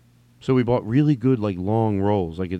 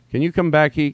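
puzzled reader; 4 semitones higher, 3 dB louder than usual. Acted. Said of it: "and then here's you".

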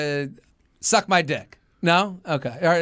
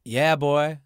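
put-on subtle Southern accent; 2 semitones lower, slower than usual. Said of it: "with that, like, subtle accent".

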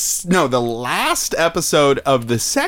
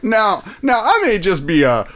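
put-on Southern accent. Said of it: "accidentally Southern".

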